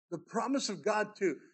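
normal talking voice

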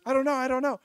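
acted panic, high and loud, then stammering; flustered, high-pitched outburst breaking into stutters; panicking. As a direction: imitate a panicking housemate tripping over words. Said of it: "he starts panicking".

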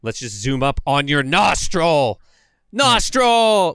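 exaggerated cameraman fixated on his shot; imitated cameraman. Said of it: "the guy filming is like".

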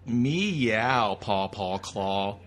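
slow, odd cat meow and chant. Pretend. Voicing a cat character over the movie, slow catlike voice. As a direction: purr it out like a cartoon cat.

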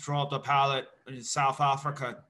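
mock South African accent. Shown as a demonstration. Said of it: "probably that takes the least effort".

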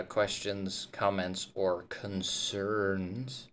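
slow, drawn-out office sign-off; lightly imitating a corporate supervisor's stock line; a hint of a bored workplace supervisor, slowing down; supervisor catchphrase. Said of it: "what I used to say when I was a supervisor".

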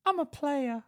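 high, laughing mock brag; mock cocky boast. Man pretending to brag to friends, high and laughing. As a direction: puff up and crack into laughter. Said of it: "I'll be like".

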